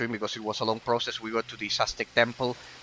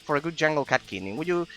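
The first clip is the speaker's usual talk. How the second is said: higher, coaxing request for kidneys; a hint of a quest giver pleading; lightly voiced villager asking a favor; 5 semitones higher than usual. Reads NPC dialogue aloud.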